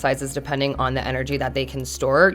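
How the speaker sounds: projected promotional voice-over; sponsor read. Real, not acted. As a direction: present the product clearly to viewers. Reads the sponsor segment.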